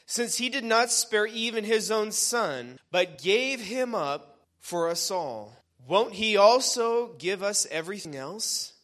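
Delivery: preacher reading scripture out with conviction; emphatic scripture reading. Acted. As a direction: proclaim the verse to a congregation. Reads scripture with preaching force.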